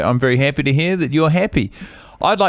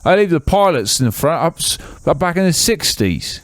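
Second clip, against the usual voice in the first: put-on Keith's English accent.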